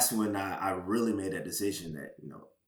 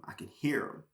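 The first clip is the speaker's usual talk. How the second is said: a soft, breathy whisper; 6 semitones higher, 4 dB quieter than usual. Retold or imitated. Telling his story, he echoes the inner voice in a whisper. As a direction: hush it like a voice only you can hear. Echoing the Holy Spirit's voice.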